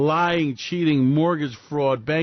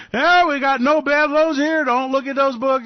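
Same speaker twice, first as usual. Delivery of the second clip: mock banker; 10 semitones higher, 6 dB louder than usual. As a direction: play a sleazy banker covering up. Mocking the bank's claims.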